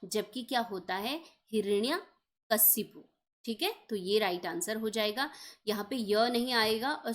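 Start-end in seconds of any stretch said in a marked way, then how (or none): 1.5-3.0 हिरण्यकशिपु said slowly, each syllable drawn out; teacher spelling out हिरण्यकशिपु syllable by syllable; slow careful spelling-out. Shown as a demonstration. Teacher to exam students, slow careful pronunciation. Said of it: "जैसे हम pronounce करते हैं".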